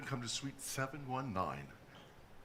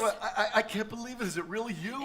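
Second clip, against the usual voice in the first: laughing disbelief; 7 semitones higher, 5 dB louder, faster than usual. Acted. Surprised reunion at door.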